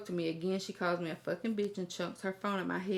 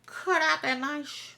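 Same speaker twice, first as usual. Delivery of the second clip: stern cut it out; 7 semitones higher, slower than usual. Real, not acted. Stern advice to parents.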